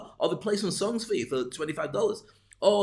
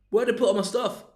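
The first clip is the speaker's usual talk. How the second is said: high-pitched complaining guest; voice going up; 7 semitones higher, 3 dB louder than usual. Acted. Guest asking host about stuff, voice going up. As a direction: push the question up high, mock put-out. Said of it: "When your voice stops going up".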